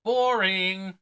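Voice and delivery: high, loud "Boring!" shouted out; exclaimed. Shown as a demonstration. Speaker reading text with added drama, exclaiming. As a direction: blast it with an exclamation point. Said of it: "Exclamation point".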